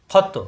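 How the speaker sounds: খত with a bounced final ত; qalqalah bounce. Shown as a demonstration. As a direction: push off the ত in খত. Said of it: "কলকলা হরফ আসলে ধাক্কা".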